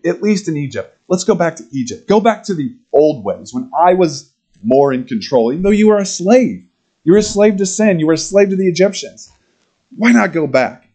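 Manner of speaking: whiny people begging to go back to slavery; Israelites pleading. Retold or imitated. Voicing Israelites urging return to Egypt.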